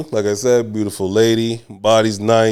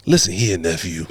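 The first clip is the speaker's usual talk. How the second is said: a hint of an old patient's smooth-talking voice; lightly voiced Mister Johnson; 4 semitones lower than usual. Older patient to the young tech, lightly put-on voice. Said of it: "let me get the voice down properly".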